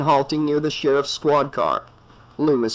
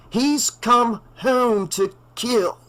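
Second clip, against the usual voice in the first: a slow, raised, ominous doctor's voice; grim old doctor; 9 semitones higher, slower than usual. A narrator's reading. Loomis warns the sheriff, slow and ominous. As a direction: warn him gravely and slowly.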